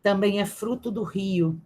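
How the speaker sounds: careful, lingering read of a poem. Acted. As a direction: give each listed word its own weight. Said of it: "mas eu vou tentar". (leitura cuidadosa de poema, pausada)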